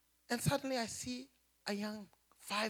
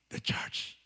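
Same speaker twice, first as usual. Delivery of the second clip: voice of the Lord. Retold or imitated. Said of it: "the Lord told me".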